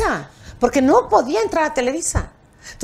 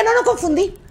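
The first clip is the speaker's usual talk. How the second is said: higher-pitched, insistent correction; retold mild outrage; indignant retort; 5 semitones higher than usual. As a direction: throw the accusation back. Her indignant retort, acted.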